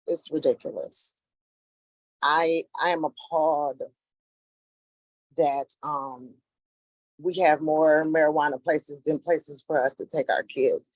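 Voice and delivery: emotional, voice cracking now and then; holding back tears, voice cracking. Real, not acted. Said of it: "my voice is cracking because I, it's emotional for me".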